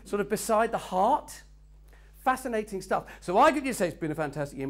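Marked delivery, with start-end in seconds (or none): 3.9-4.7 miserable. Shown as a demonstration.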